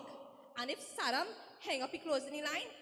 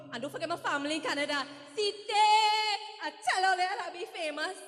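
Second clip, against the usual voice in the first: excited shout-out; 4 dB louder than usual. Acted. Village witness greeting family on live TV, excited. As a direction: belt out proud hellos to the whole family.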